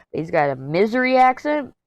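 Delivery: "Missouri" pronounced MIZ-ery, pitched a little up; Missouri as "misery". Real, not acted. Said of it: "you just heard me call it right".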